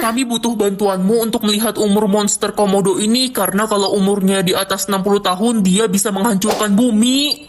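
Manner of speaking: lightly voiced low, urgent official; grave official. Official asking for help against a Komodo monster, gravely.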